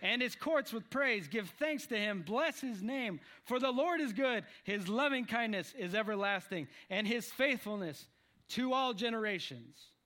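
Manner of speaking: emphatic psalm recital; scripture reading. Acted. Preacher reading the psalm's praise to the group, declaiming. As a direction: proclaim the verses to the room.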